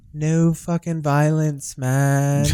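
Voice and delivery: mild mock chill California accent. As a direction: imitate a laid-back California dude, slow. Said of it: "it's such a chill".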